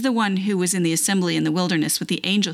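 measured, expressive reading aloud of scripture. Acted. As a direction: read the Bible passage aloud with deliberate emphasis.

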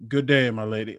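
lightly voiced prim gentleman, a touch formal; mock courtly politeness, only lightly put on; overly polite suitor. Mocking Bill Gates asking a woman to dinner, lightly voiced gallant gentleman. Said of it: "a polite".

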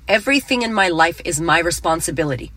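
sincere mantra. Shown as a demonstration. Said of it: "Say it with me now".

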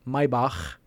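"Maybach" as MY-bahkh; correct German pronunciation. Shown as a demonstration. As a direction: say "Maybach" with MY first and a German throaty ch. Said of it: "I have to say it right".

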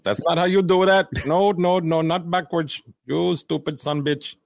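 a hammed-up coach berating a trainee; mock angry trainer. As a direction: scold like a fed-up coach. Mocking a trainer in video.

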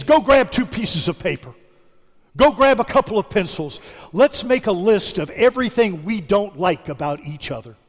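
a mild mock angry husband; husband snapping at his wife over a quarrel, mildly mock angry; husband's outburst.

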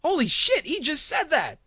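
retelling his shock at the father's words; shocked disbelief. Retold or imitated. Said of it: "I'm like".

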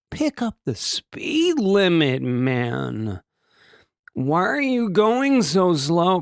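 slow, drawn-out griping; mock exasperation. Commuter griping at the slow car ahead, mock exasperated. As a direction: stretch it out in disbelief at a slow driver.

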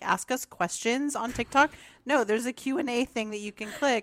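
cracking voice; a frog in the throat. Real, not acted. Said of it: "your voice is cracking".

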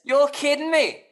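astonished, falling exclamation; real disbelief. Real, not acted. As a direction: react floored by the news. Stunned by the family connection.

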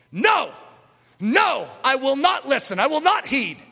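a loud, resolute no to temptation; defiant refusal. Acted. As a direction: slam the door on the devil's voice. Acted refusal of the devil's thoughts.

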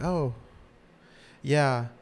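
lightly voiced Molly, slow and pleased with herself; smug correction. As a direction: drag it out, savoring being right. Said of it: "Molly's like".

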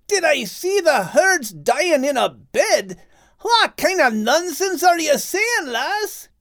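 half-shouted confusion; mild shout. Acted. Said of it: "Max shouted in reply".

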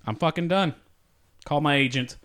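fast, furious cursing; angry rant. Real, not acted. Actor quitting the set, cursing the director. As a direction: storm off the set swearing.

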